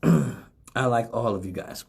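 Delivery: measured, earnest assurance; utmost sincerity. Real, not acted. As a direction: say it slowly and sincerely. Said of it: "say this with the utmost sincerity".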